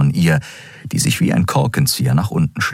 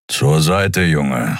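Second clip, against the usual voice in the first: gruff grumble; much slower than usual. Acted. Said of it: "brummte er".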